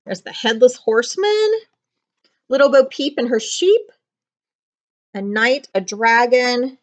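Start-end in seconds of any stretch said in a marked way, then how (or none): none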